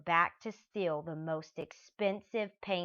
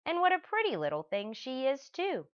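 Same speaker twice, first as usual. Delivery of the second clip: higher, quicker sweet cooing; cooing admiration; 9 semitones higher than usual. Acted. A thief admiring a painted girl, cooing high. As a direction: coo over the pretty picture.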